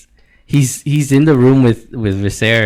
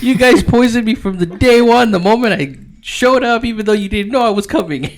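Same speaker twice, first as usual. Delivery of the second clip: high, loud rant with a laugh; paranoid accusation; 11 semitones higher, 4 dB louder than usual. Retold or imitated. Daemon to Alys, high loud mock-paranoid accusation. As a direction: accuse them all, half laughing.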